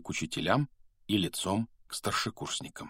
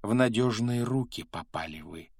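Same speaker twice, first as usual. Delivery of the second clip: measured, lilting verse recitation; singsong poem of a talking hat; rhymed hat song. A narrator's reading. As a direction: recite it rhythmically, stretching the line ends.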